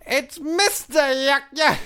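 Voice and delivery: high, drawn-out Southern farmer cry. Acted. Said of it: "the Southern Farmer guy".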